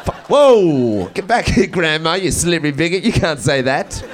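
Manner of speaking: chasing grandma across the room; mock chase shout. Grandson chasing slippery grandma, hammed-up scolding yell.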